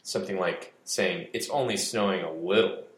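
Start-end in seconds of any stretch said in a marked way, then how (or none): 1.3-2.8 sarcastic weight on the word little; stress on little. Shown as a demonstration. Explaining scare quotes, stressing little sarcastically. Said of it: "with the emphasis on little".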